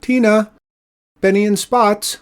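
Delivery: high, loud calling out to the cats; old woman calling her cats by name. Acted. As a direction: call them in across the rocks.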